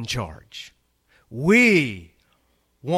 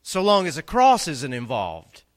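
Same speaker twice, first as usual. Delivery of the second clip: high, louder mock-pious voice; mocking quote; 9 semitones higher, 8 dB louder than usual. Preacher imitating fair-weather believers, mock-pious sing-song. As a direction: parody a shallow believer. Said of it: "How many people say".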